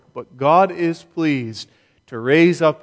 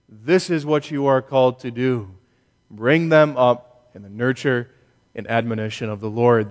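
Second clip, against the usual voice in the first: emphatic paraphrase of Paul. Retold or imitated. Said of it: "What he is saying is".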